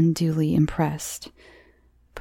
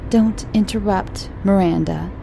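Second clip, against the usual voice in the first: cross. Acted. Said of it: "said Mummy crossly".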